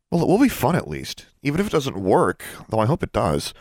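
bubbling over with delight; excited Sonia. Acted. Sonia gushes to Alexandra about the ritual, high and thrilled.

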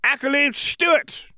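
very high-pitched name call; squeaky-high roll call; little professor calling out. A narrator's reading. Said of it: "called Flitwick".

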